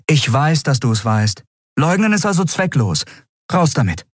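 eine Frau, höher gesprochen, fordernd; Andriel, bestimmt. A narrator's reading. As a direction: fordere die Antwort ein. Andriel drängt. (Andriel fordert Erklärungen, bestimmt und höher)

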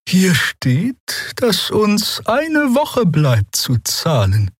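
calm them down gently; gentle. A narrator's reading. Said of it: "sagte die Draxyl sanft".

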